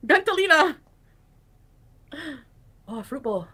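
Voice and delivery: loud mystic incantation; fortune teller. Pretend. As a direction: call out a fake spell. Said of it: "Scammy fortune teller".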